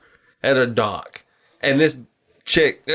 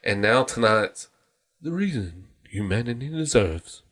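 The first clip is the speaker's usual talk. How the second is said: segment announcer; 2 semitones lower, 5 dB quieter than usual. Shown as a demonstration. Previewing a planned podcast segment, hushed announcer. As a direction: drop to a hush by the end. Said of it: "It's gonna be like".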